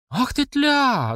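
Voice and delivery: high, slow furious shout; angry cry. Acted. Mamasha cries out at Platsekina, high and slow. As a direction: hurl the insult at her. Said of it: "закричала мамаша".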